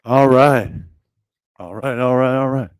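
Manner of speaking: normal talking voice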